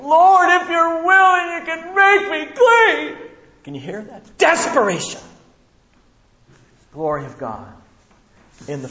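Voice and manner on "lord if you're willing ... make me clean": high, loud, drawn-out plea; desperate begging. Retold or imitated. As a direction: beg slowly with desperation in every word. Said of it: "It says he's begging".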